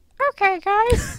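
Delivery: put-on voice, pitched very high. Reading out who made a segment, Emma impression. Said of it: "Is that your that's your Emma impression? Yeah, yeah".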